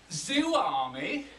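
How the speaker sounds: a blunt Yorkshire explorer refusing the name; broad Yorkshire accent. Retold or imitated. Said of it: "in a broad Yorkshire accent".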